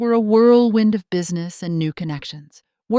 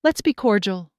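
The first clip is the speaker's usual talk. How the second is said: firm; 4 semitones higher, 3 dB louder than usual. Acted. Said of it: "I said firmly".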